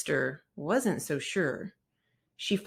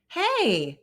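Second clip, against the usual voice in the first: Brother's alarmed cry; 11 semitones higher, 5 dB louder than usual. Acted. Brother finds bike gone.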